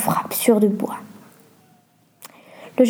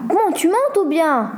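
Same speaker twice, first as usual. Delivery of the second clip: yelled; 7 semitones higher than usual. A narrator's reading. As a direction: call out impatiently in a raised, slow voice. (cri aigu et traînant, sans forcer)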